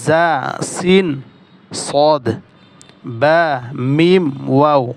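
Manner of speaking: drawn-out Arabic letter names with pauses between groups, "জিম শিন ইয়া" held long; careful letter articulation. Shown as a demonstration. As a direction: recite each Arabic letter name slowly and distinctly, from "হামজা" to "ওয়াও". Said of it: "এখানে হরফগুলো উচ্চারণ করি".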